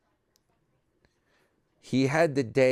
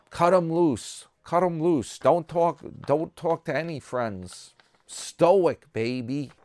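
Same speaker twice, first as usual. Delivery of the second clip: imitating Tim; 6 semitones higher than usual. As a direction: bark a pep talk up high like Tim. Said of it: "he's like".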